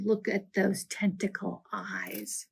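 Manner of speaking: breathy whispered wonder. Acted. Ari whispering close to the snail, amazed. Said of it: "and whispered".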